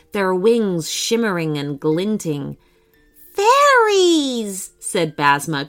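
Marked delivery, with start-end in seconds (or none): 3.3-4.7 high, loud, excited cry; delighted exclamation. A narrator's reading. Child spotting fairies in a wood, delighted cry. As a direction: call it out in delight, pitch soaring.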